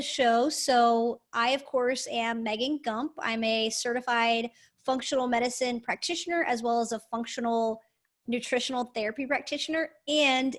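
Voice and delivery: echoey hallway sound. Real, not acted. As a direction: voice bouncing off bare hallway walls. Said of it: "I sound like I'm in a hallway right now".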